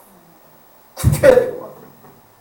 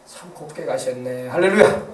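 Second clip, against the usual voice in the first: admiring mourner; 5 semitones lower than usual. Retold or imitated. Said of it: "이런 소리가 나와야지".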